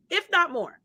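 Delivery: ordinary talk, nothing marked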